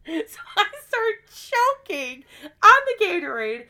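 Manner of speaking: high, loud choking laughter; laughing choke. Real, not acted. Friend retelling snorting Gatorade, choking with laughter.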